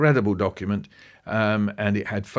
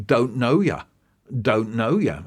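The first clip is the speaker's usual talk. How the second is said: lightly sing-song jeer, a touch louder; mild mocking taunt; 2 semitones higher, 3 dB louder than usual. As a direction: tease the snob with a mild jeer. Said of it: "mocking Pip, by walking around going".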